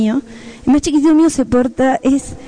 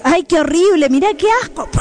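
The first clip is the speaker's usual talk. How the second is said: mock disgust; 4 semitones higher than usual. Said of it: "qué espera que le digas".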